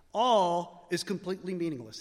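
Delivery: ALL punched, the rest falling away; stress on all. Shown as a demonstration. Preacher showing the congregation which word Professor Q emphasizes, stress on "All". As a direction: give "All" the weight of the whole line. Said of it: "He emphasizes the word all".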